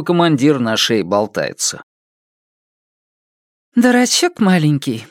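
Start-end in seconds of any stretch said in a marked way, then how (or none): 3.8-5.1 friendly. Acted. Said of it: "приветливо окликнула меня Лайди".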